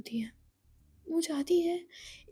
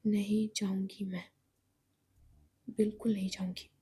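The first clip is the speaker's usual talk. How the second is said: low, whispered stubborn refusal; Eva refusing again, hushed and low; 6 semitones lower, 3 dB quieter than usual. Acted. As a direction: whisper it defiantly.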